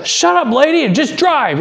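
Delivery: hammed-up thief voice; thief threatening. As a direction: play the carjacker snapping at her.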